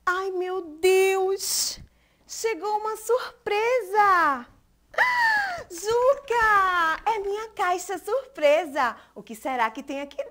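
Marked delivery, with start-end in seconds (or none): 0.1-9.0 high, delighted gasp of surprise; surprise party shout. Acted. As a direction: act amazed for the kids. Surprise box appears.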